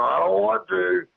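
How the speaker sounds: high-pitched, insistent retold warning. Retold warning to creature in tree.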